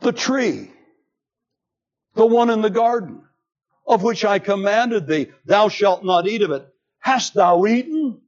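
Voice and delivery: a hint of divine rebuke; God confronting Adam.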